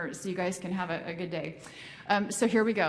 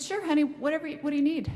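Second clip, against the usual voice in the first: busy attendant; 8 semitones higher, 4 dB louder, faster than usual. Retold or imitated. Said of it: "And she said".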